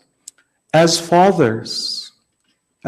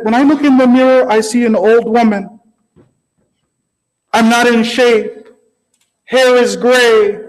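a hint of an old wife, pitched up; higher, mildly imploring wife's voice; lightly voiced old lady; 6 semitones higher than usual. Old woman at the mirror appealing to her husband, mildly plaintive. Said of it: "there was this old lady, she's standing in front of the mirror".

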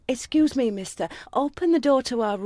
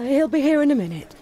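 agitated insistence; 3 dB louder, faster than usual. Acted. Distressed woman still repeating it.

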